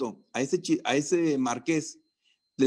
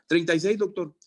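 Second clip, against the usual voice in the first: student answering; 3 semitones higher than usual. Acted.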